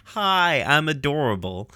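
lightly voiced cutesy introduction, high start; Ruby. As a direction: pop in with a cute high greeting. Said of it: "Ruby pops out and she's like".

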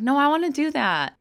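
put-on high, loud childlike insistence; a kid who won't take no from her sister; eager child insisting. Young girl insisting to sister she'll be on TV, eager and high.

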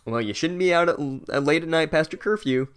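prim reproach, played for laughs; mock scolding. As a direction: imitate a fussy rule-follower telling someone off. Mimics a scolding female character.

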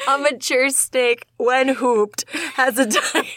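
giggling through the reading; breaking up mid-sentence; can't keep a straight face; laughing. Real, not acted.

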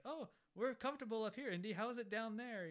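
sing-song gloating, lightly voiced; smug villain. Villain taunting Indy in the pit, smug. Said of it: "he's just like".

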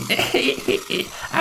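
breathy high cackle; old man's wheezy cackle. Acted. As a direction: laugh like a gleeful old villain. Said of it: "den gamle mand grine".

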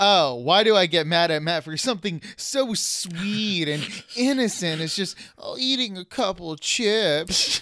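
sarcastic, sugary innocence; mock innocent. Host mocks cohost's chip eating, sarcastic and sweet. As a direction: make it sound sweet and harmless. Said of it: "I love the way you said it".

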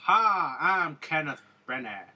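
put-on hammy Southern accent greeting; corny southern accent. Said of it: "corny southern accent in that".

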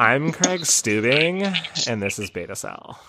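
put-on slow drawn-out mall-teen accent, then trailing off quietly; mocking Californian accent. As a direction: echo the California teen voice, teasing. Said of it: "he sounded like a high schooler".

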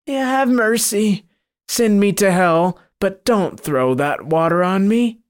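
a cornered devil begging not to be splashed; begging monster. Acted. Monster begs for mercy.

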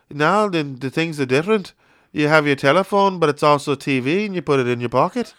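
sing-song Liverpool telling a bandmate about phones; impression of a famous singer. The singer tells his bandmate about phones in Liverpool accent. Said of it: "He's like".

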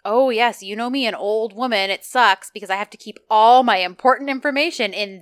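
pointedly emphatic, imitating an old woman dropping hints; pointed hinting. Co-host retelling Baba Ane baiting Eda, pointedly. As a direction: lean hard on the key words, as a mock hint. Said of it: "how very pointedly she's like".

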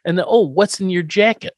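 hammed-up betrayed husband; playing Herman, fed up; mock outrage. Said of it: "I'd be like".

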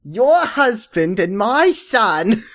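put-on Jewish mother with British accent. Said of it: "what should I say in Jewish mother voice".

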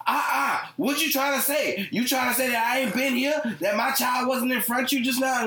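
high, sassy mock of an outraged mom; imitating the mom who jumped the line, high and huffy; indignant soccer mom. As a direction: play the caught mom getting offended, way up high. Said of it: "She said".

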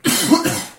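harsh coughing bout; coughing fit. Real, not acted. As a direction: cough hard, then recover. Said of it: "Sorry, I'm coughing so much".

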